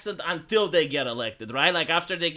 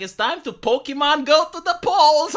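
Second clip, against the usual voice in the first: mocking politician's corny joke, louder, higher, into forced laughter; hammed-up cheesy punchline with a big fake laugh; Hillary Clinton; 7 semitones higher, 5 dB louder than usual. Mocking Hillary's video game joke, hammed-up and forced. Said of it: "Hillary Clinton was also making jokes with video games".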